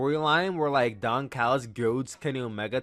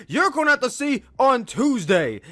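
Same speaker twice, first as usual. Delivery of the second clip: smug tease; 9 semitones higher, 5 dB louder than usual. Retold or imitated. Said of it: "Don Callis is like".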